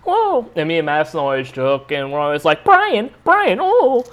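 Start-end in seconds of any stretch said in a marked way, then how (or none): 0.0-0.5 very high-pitched startled yelps; mock freak-out. Mother-in-law at every car backing out, mock panic. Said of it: "freaking out". 2.6-4.0 high squealed plea, imitated; mock freak-out. Mother-in-law calling to her husband driving, mock panic. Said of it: "she's freaking out in the back".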